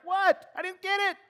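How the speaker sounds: high mock confusion. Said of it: "And I'm like".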